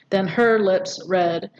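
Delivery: slow, equal weight on "her", "lips", "red"; measured, heavy "her lips red"; three stressed words. Shown as a demonstration. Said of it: "all three of these are stressed".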